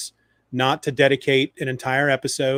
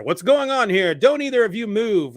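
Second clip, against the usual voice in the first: higher, raised cop's challenge; acted cop; 6 semitones higher, 5 dB louder than usual. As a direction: call out like a cop taking charge. Acting out the arriving cop.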